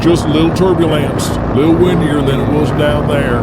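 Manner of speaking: a touch of worry in the bumps; nervous Donnie. Acted.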